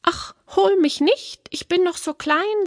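high, pleading little goat; very fine voice. A narrator's reading. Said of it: "mit ganz feiner Stimme". (hohe, feine, bittende Böckchenstimme)

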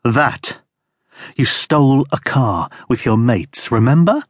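a touch of restrained anger; controlled anger. Acted. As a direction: hold the anger in check. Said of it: "a note of controlled anger".

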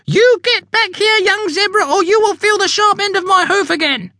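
high scolding mum calling out; stern mother zebra. Acted. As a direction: call the child back with a threat. Mother zebra calls son back.

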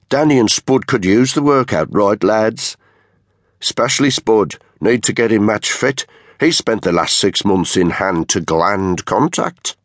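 cocky leader taunting his men; sneering unit leader. Acted. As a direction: goad the lads with a sneer.

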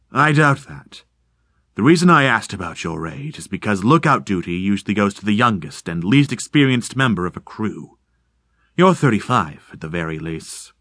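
coolly reading him like a book; lightly voiced cool stranger. Stranger's calm sizing up.

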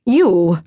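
crisp, deliberate "You"; each sound of "You" set apart; enunciating carefully. Acted. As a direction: pronounce "You" with cold precision. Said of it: "enunciating each word carefully".

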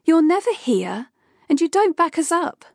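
Kay berating her boss for never being there; angry rant. Acted. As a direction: lay into him, building to the last line.

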